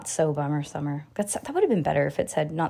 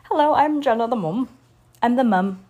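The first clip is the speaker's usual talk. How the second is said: higher, put-on mom announcement; mock mom voice; 4 semitones higher than usual. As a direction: play the proud mom, lightly. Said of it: "I just say mom 'cause".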